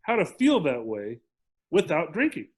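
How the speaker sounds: slow, calm promise; calm steady reassurance; calm and clear. Retold or imitated. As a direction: say it slowly and plainly, meaning it. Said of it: "very clearly and very calmly".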